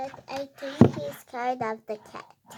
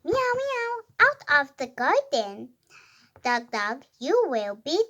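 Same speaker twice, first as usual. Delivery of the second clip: animated story reading; 8 dB louder than usual. Acted. Reader voicing a quarrelling cat and dog, animated read-aloud. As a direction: read it out clearly, pitch jumping up on woofs and meows. Reads the cat's part.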